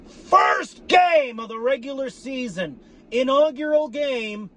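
high, slow, proclaimed hype; announcer hype. Real, not acted. Fan announcing the season opener, slow announcer hype. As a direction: announce it like a big event.

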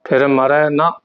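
phrase halted right on ਨਾ; brief halt after ਨਾ. Shown as a demonstration. Teacher shows the small break, halting after ਨਾ. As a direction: stop short after ਨਾ, before going on. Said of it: "ਇੱਥੇ ਠਮਕ ਲਾ ਕੇ".

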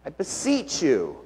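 quiet, hushed beseeching; soft plea. Retold or imitated. Pastor voicing the disciples' plea, quiet beseeching. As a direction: breathe the plea softly. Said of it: "Something in there".

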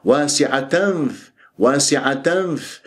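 واسعة with nasal n closing onto f; choked ghunna demo. Shown as a demonstration. Teacher drills the n of واسعة before f, short slow chant. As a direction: stop on the nasal at the end of واسعة. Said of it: "لا أخنق الغنة".

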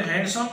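हैंडसम with the d sounded, hand-some; wrong pronunciation. Shown as a demonstration. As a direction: say हैंडसम with a clear d. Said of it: "तो ये गलत होगा". (हैंडसम में ड बोलकर गलत उच्चारण)

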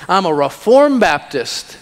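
mock pride, leaning on "reformed". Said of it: "let's get a little more refined".

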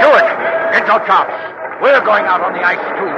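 loud, urgent orders; urgent shouting. Acted. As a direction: call out over the noise. Urgent orders on breaking ice.

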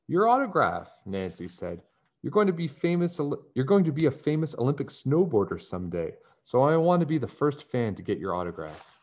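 high, breathless fan talk; mock adoring fan. Nancy flattering Bradley as his first fan, high and eager. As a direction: lay the flattery on thick.

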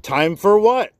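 put-on startled child's question; puzzled question. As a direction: ask it with real surprise.

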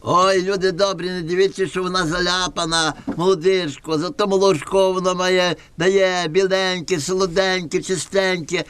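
high, sing-song peddler voice; comic Gypsy trader. Acted. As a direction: hawk the goat like a trickster. Gypsy seller pitching goat.

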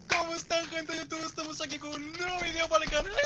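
YouTuber intro voice. Pretend. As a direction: greet the viewers like a YouTuber. Mock YouTuber channel intro.

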